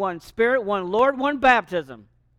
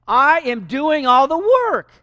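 "I" punched, louder and higher, slow; stress on I; 5 semitones higher, 6 dB louder, slower than usual. Retold or imitated. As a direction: lean hard on "I am doing all the work". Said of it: "careful the word I".

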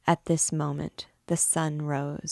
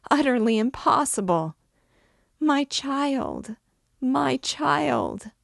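desperate mother begging, higher voice, pressing hard; raised, urgent voice of a distraught mother; pleading mother; 5 semitones higher, 5 dB louder than usual. A narrator's reading. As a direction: plead for your daughter's life. Mother's desperate plea in story.

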